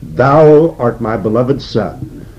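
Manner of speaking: slow, solemn King James reading of "Thou art my beloved Son"; solemn scripture quote. Acted. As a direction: read "Thou art" slowly, as the voice from heaven. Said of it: "from heaven comes a voice, saying".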